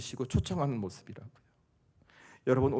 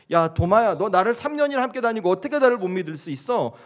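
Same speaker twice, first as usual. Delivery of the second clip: loud, higher mock rebuke; acted scolding; 7 semitones higher, 8 dB louder than usual. Imagined Jesus rebuking doubting Thomas, scolding. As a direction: act out telling off a disciple. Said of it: "그를 정죄하고 꾸짖고".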